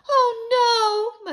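high, loud wail of dismay; crying out. A narrator's reading. Mother learning of the lost teeth, crying out. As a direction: cry out in alarm, drawn out. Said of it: "my mother cried".

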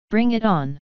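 full-throated defiant roar. A narrator's reading. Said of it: "Starlight roared".

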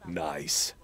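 low, falling nice; low deadpan nice. Pretend. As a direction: drop it down low and flat. Reacting to censor beep.

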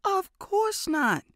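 high, slow mock offense; feigned shock. A narrator's reading. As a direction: play it scandalized. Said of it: "feigning shock".

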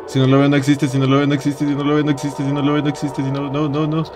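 even, monotone nonstop chant; contained mantra. Real, not acted. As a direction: repeat it steadily on one note. Same mantra, held in check. (mantra contenido, sin pausas, monótono)

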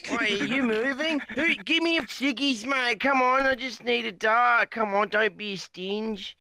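a lightly voiced Aussie bloke begging for a smoke; cadging bloke. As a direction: wheedle for a dart like a broke mate. Drunk bloke begs for cigarettes.

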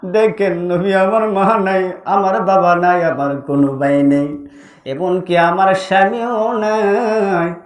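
low melodic lament; acted grieving mother listing losses in a chant; mournful pleading. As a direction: plead musically, trailing each phrase downward. Bereaved mother pleading with prophet.

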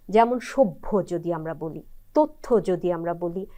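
সভ্য said as shobbho, তথ্য as tottho; সভ্য and তথ্য with doubled consonant and final o; demo pronunciation. Shown as a demonstration. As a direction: say সভ্য with a plain b then bh. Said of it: "আমার উচ্চারণ শুনেই".

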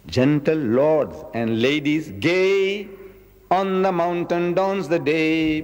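put-on slow, sing-song recitation of an old school poem; poem recital. Repeats the poem.

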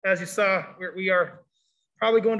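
muffled behind a face mask; through a face mask. Real, not acted. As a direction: talk through a cloth mask. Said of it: "hard to hear me through the mask".

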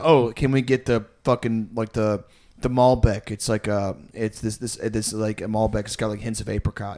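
low, soft affected wine snob; imitating a sommelier, quietly haughty; snooty date voice.

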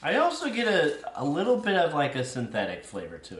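tasting while speaking; chewing while talking. Real, not acted. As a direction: mouth partly full. Seen 2: holds bitten chocolate, mouth working while tasting and talking.

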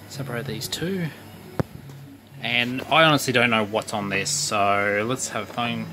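muffled. Real, not acted. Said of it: "I do apologise if I sound a bit muffled".

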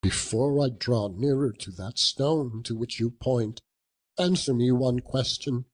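desperate plea. Acted. Scrooge begs the ghost at the grave, high and desperate. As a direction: beg for a different future.

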